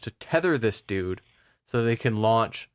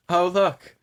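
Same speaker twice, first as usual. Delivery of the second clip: lisping fairy; 4 semitones higher than usual. Pretend. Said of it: "The way you're trying to have a lisp while smiling".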